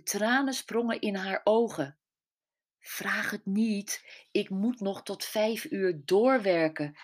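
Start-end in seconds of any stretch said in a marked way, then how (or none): 2.8-7.0 stammering. Acted. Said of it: "stamelde ze".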